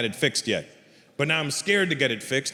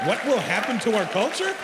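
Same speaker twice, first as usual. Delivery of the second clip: higher, mocking repeat of the question; raised-pitch rhetorical challenge; incredulous echo; 5 semitones higher than usual. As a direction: throw the question back in disbelief. Comic throws the parent's question back.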